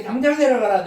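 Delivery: God ordering Moses down, loud; stern command. Shown as a demonstration. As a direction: read as a loud divine order. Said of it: "한번 읽어봐 드릴게요".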